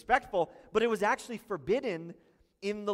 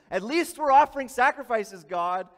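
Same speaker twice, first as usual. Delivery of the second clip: whiny protest; 6 semitones higher, 12 dB louder than usual. Pretend. People protest to God.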